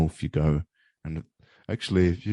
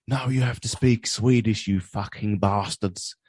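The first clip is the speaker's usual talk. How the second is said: higher-pitched mock conqueror, slowing on the insult; mock stern order; 5 semitones higher than usual. Swede voicing Sweden ordering Malmö to switch language, mock stern. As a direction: lay down the law in jest.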